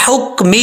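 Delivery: "حکمہ" opening on a strong throat h; throaty fine ha. Shown as a demonstration. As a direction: squeeze the h of "حکمہ" from mid-throat. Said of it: "یہ sound آنا چاہیے". ("حکمہ" حلق سے باریک حا)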